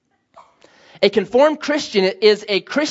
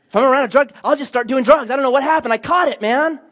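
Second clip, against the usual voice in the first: higher-pitched, hammed-up helpless excuse; mock naive worry; 5 semitones higher than usual. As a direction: imitate someone naively scared of catching it. Mimics fearful compound Christians.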